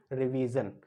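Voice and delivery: रिवीजन ending in voiced "zun"; voiced "jun" ending. Shown as a demonstration. Teacher models it for students, रिवीजन with voiced ending. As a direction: say रिवीजन slowly with a buzzed ending. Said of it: "उसका भी pronunciation क्या है".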